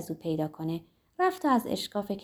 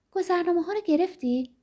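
joyful question; 8 semitones higher than usual. A narrator's reading. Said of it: "ناگهان با خوشحالی پرسید".

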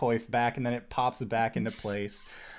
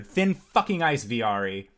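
angry. Acted. Boss scolds underling angrily.

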